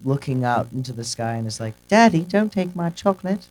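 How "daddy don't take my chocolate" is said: lightly voiced dying daughter, higher pitch; Charlotte. Imitating dying Charlotte calling to daddy, higher mock plea. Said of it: "she's dying and she's, like".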